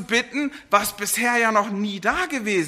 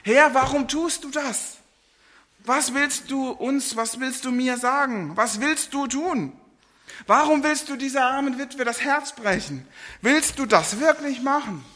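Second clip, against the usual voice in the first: pleading lament; 4 semitones higher than usual. Acted. Elijah laments to God over the widow's dead son, pleading. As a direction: plead with God, voice lifted in despair. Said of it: "Ihn klagt er an".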